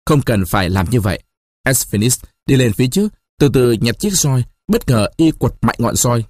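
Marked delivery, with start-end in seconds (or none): 0.0-1.2 calm. Acted. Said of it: "bình tĩnh nói".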